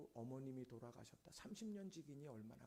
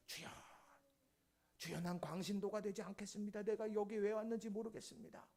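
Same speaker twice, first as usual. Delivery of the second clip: high, loud plea to God; loud acted-out confession to the Lord; re-enacted prayer cry; 7 semitones higher, 7 dB louder than usual. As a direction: cry out a prayer in one raised, sustained pitch. Acts out a prayer cried to God.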